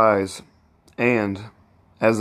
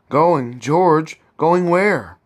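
rising, alarmed questions, pitch climbing higher; 6 semitones higher, 3 dB louder, much slower than usual. Acted. Wife hears husband is leaving, alarmed and rising. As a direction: catch the shock of losing him.

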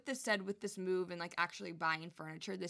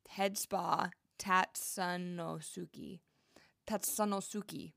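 very slow, careful Japanese accent; best Japanese accent; much slower than usual. Shown as a demonstration. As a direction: sound out each syllable in your best Japanese accent. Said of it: "That was my best Japanese accent".

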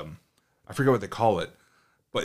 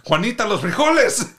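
higher, louder call across the yard; 11 semitones higher, 7 dB louder than usual. Retold or imitated. Family calls to neighbor across the yard, loud call. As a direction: shout the warning to the neighbor. Calling neighbor about burning beans.

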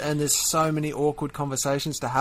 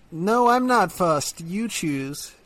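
put-on American girlfriend; 3 semitones higher, much slower than usual. Girlfriend refusing to choose dinner, drawn out and fussy. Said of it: "Tom was being my American girlfriend".

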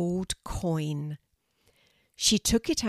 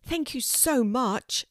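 excited thanks; 6 semitones higher, slower than usual. A narrator's reading. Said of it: "said Kelty excitedly".

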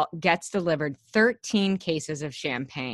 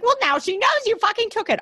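mock exasperation; 4 dB louder, much faster than usual. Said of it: "I was like".

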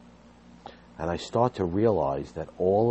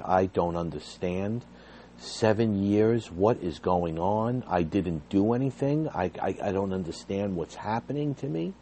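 crying on phone; 3 semitones higher than usual. Retold or imitated. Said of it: "started to hysterical cry over the phone".

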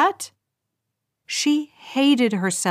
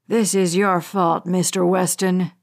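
lightly lowered, cold villain voice; a hint of a patient, threatening hijacker; menacing hijacker; 4 semitones lower than usual. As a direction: hijacker taunting a father over camera, low and cold. Hijacker Bradley repeats the blame.

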